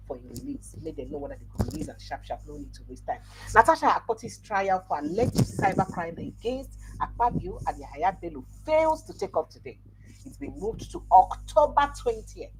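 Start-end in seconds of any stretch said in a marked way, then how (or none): 3.5-12.5 higher, emphatic news headline delivery; punchy radio headline read. Acted. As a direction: read the headline slowly, pitched up. Reads out a headline.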